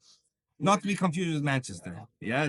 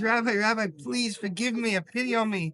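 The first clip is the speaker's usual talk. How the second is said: raised, begging plea; pleading; 4 semitones higher than usual. Acted. Young chassid chasing the rabbi he slapped, pleading. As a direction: beg him to forgive you.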